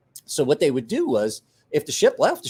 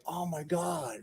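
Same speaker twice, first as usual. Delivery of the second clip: soft stunned oh my God; stunned hush; 3 semitones higher, 11 dB quieter, slower than usual. Retold or imitated. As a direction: let it slip out in shock, softly. Realizes friends are missing.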